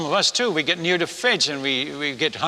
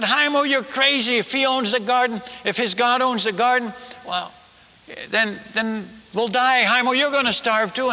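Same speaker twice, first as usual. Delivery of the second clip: angry villagers; 4 semitones higher than usual. Retold or imitated. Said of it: "they're all getting angry at him now".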